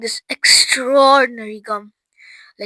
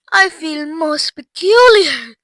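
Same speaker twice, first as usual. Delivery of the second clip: slow, higher, mildly distressed voice; gasped unease; 5 semitones higher, 7 dB louder, slower than usual. A narrator's reading. Violet swelling up, a touch of gasping unease. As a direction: draw it out woozily. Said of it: "gasped Violet".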